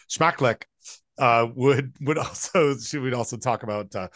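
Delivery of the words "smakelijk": "smakelijk" said as the Dutch word, sma-ke-lik; quoting grandma's Dutch "smakelijk". Retold or imitated. Grandson quotes his Dutch grandmother at the table, in Dutch. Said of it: "who would say".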